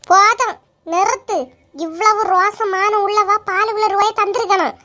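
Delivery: angry stop. Acted. Quarrel over unpaid milk money.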